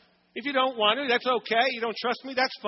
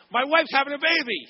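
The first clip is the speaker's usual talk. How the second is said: higher, louder proud announcement; 6 semitones higher, 4 dB louder than usual. Retold or imitated. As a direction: announce it to the whole ER. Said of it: "and I announce".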